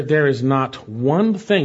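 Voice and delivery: "one" set out as the key word; emphatic. Shown as a demonstration. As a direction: stress on "one". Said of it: "that's emphatic".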